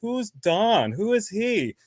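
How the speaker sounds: high-pitched puzzled questions; mock bewilderment; baffled retelling. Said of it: "And I'm like".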